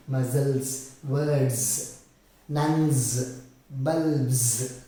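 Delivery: MUSCLES, WORDS, NUNS, BULBS with buzzing z endings; slow word list, each final s voiced as z; ending sound demo. Shown as a demonstration. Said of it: "it becomes za".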